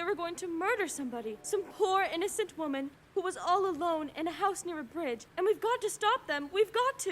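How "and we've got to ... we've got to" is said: urgent plea. Acted. Pleading urgency to operator.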